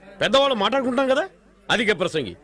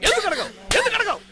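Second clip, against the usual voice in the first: ఎందుకు అడగవు repeated, climbing higher each time; escalating demand; 9 semitones higher than usual. Acted. Father presses his daughter to apologise, building anger. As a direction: push harder with each repeat.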